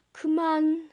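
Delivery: plain reading voice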